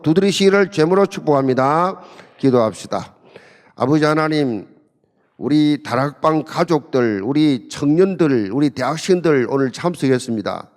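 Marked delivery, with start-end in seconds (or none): 3.7-10.7 prayer. Acted. Pastor praying aloud over the seminar attendees, earnest. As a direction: pray over the congregation unhurriedly.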